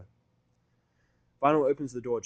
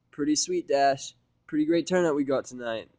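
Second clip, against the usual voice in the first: enthusiastic Vinyl; 4 semitones higher, 8 dB louder than usual. Acted. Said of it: "the greeting enthusiastically".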